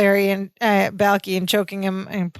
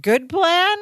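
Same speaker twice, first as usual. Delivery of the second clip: high, offended echo; mock indignation, higher; indignant sidekick; 4 semitones higher than usual. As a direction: huff at the slight to the plan. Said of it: "And Balky's like".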